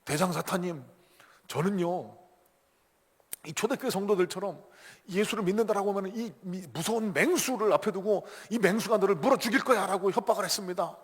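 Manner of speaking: underling proudly reporting to the boss; mock-proud minion's report; confident report. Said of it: "당당하게 보고합니다".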